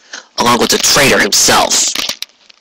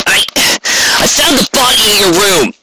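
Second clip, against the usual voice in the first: much higher, sharp snapped retort; snapping back; 9 semitones higher than usual. A narrator's reading. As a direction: snap back in self-defense. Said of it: "Rainbow Dash snapped back".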